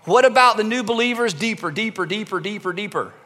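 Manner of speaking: mock insistent faction. Group demanding deeper teaching.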